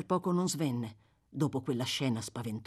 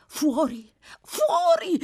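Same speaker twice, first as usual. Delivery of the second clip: put-on higher, louder frantic old man; old man urging; 12 semitones higher, 7 dB louder, much slower than usual. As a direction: hurry the boy out, half-crazed. Fagin urging, rispose Fagin.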